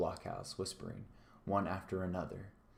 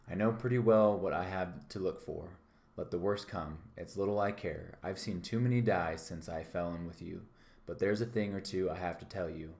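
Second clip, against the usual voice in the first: a touch of defiant excitement; excited. Acted. Jim defying the pirates, mildly excited. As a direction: Jim standing up to the pirates, a bit heated. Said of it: "I was quite excited".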